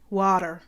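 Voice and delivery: "water" said WAH-der; Canadian water. Shown as a demonstration. Repeating the Canadian version, D-sound "water". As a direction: open vowel, D in the middle of water. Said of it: "with a D".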